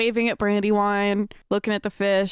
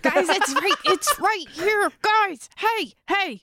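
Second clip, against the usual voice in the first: excited calling; 8 semitones higher, slower than usual. Acted.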